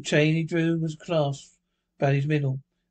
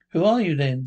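louder, demanding question; raised voice; 5 dB louder than usual. Acted. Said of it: "raising his voice".

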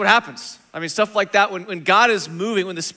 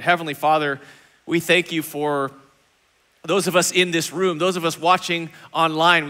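prayer. Acted. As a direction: pray sincerely for the room. Pastor leads congregation in prayer.

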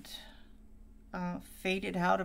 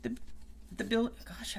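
words broken by hiccups; 3 semitones higher than usual. Real, not acted. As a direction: talk through the hiccups. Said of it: "I've got the hiccups now".

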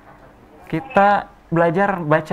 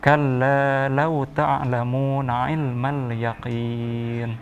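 slow, measured tartil recitation; Quran recitation; 2 semitones lower, much slower than usual. Shown as a demonstration. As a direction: recite slowly for a child to repeat. Teacher recites for pupil.

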